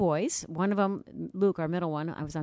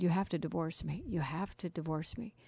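sobbing plea; 4 dB quieter than usual. Retold or imitated. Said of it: "sucked in this deep sob".

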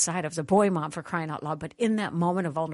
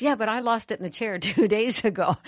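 put-on arguing boy; 5 semitones higher, 3 dB louder than usual. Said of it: "but they're arguing".

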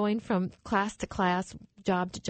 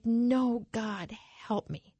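hushed, slow plea to God; retold desperate plea; slower than usual. Retold desperate plea with pills in hand.

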